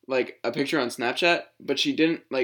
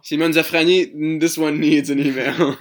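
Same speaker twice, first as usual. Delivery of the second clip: mock announcer voice; 2 semitones higher, 4 dB louder than usual. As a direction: play the spam sender. Voicing Zuckerberg sending spam.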